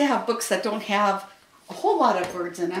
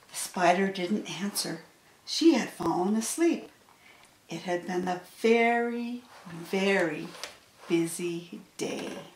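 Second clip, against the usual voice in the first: soft, slowing story ending; hushed close to a children's tale; story narration; 3 semitones lower, 7 dB quieter than usual. A narrator's reading. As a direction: read it softly, winding down.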